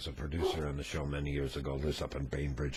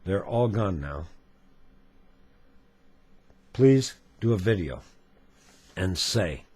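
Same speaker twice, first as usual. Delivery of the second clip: measured reading with emphatic openings; solemn letter reading. A narrator's reading. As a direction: read the letter aloud gravely, phrase by phrase. Reads a viewer's letter aloud.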